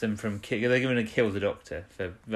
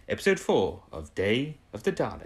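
announcer voice. Shown as a demonstration. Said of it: "I sounded like I was doing a bit of an announcer voice then".

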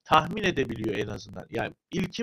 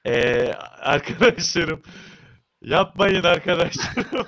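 laughing plea; 3 semitones higher, 6 dB louder, slower than usual. Real, not acted. Pleading with control room, laughing.

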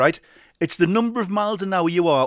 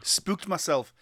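whispered "Spooked myself"; whispering; 6 dB quieter, much slower than usual. Shown as a demonstration. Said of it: "See that again?".

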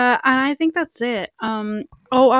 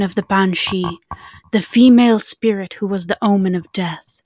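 spooky storytelling voice. Acted. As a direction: tell it like a campfire ghost story. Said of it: "Let me prepare my spooky voice".

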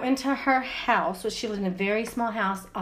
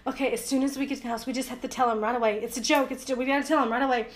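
hurried planning; faster than usual. Retold or imitated. Retold hurried plan to confess.

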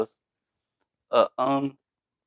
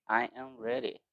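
mock-ready reply; 11 semitones higher, 9 dB quieter than usual. Answers the hype call.

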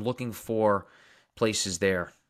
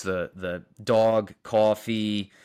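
Long Island accent; 3 dB louder, much slower than usual. Shown as a demonstration. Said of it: "I have that Long Island, like, Brooklyn accent".

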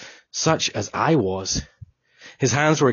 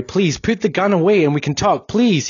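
pleading cry; 7 semitones higher, 4 dB louder than usual. Acted. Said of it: "he cried".

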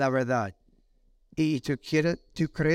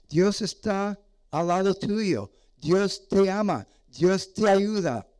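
slow, higher, soothing parent; tender reassurance; 5 semitones higher, slower than usual. Pretend. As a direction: reassure a child gently and slowly. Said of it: "tiene que decirle a tu niño".

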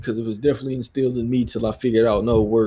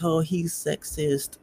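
mocking critic; 6 semitones higher, 6 dB quieter, slower than usual. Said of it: "somebody's gonna be like".

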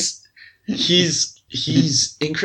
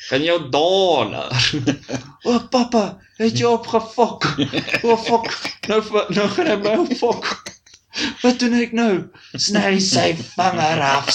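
mock Afrikaans film scene; 4 semitones higher than usual. Parodying an Afrikaans Lord of the Rings, hammed-up voices. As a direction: ham up a dubbed movie scene.

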